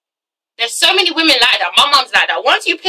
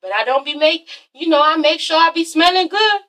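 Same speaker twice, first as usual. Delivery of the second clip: mock clueless Kim; 4 semitones higher than usual. Vlogger imitating Kim defending her grooming, voice rising. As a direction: shrug it off as naive mom. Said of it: "And Kim's like".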